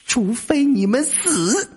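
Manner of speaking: high, slow, drawn-out ghost threat; eerie slow ghost voice; ominous ghost. Acted. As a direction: promise death like a spook.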